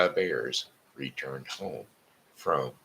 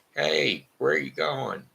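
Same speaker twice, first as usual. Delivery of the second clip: put-on baby bear yelling; 11 semitones higher than usual. Baby bear yells after fleeing Goldilocks, high yell. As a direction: call after her like a frantic little bear. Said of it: "yelling and screaming and said".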